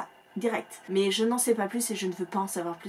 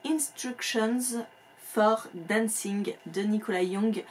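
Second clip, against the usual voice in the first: English title read slowly in a heavy French accent; slow, self-conscious French accent on an English title; slower than usual. Real, not acted. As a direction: say the English words carefully, the French way. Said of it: "alors attention avec mon accent".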